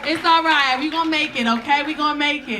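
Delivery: high, loud, sassy comforting voice; gay flight attendant. Retold or imitated. Flight attendant comforting the crying passenger: high, loud, sassy. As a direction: call everyone in to hug, loud and camp. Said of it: "some gay flight attendant came out of nowhere and was like".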